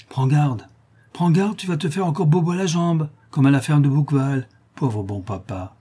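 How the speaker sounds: a hint of a cheeky boy, mocking; lightly voiced taunting brat. Tortillard mocks the chained man.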